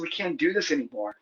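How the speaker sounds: softly, a quiet heavy admission; quiet retold breakup line. Telling his partner it's over, quiet and resigned. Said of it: "and I said".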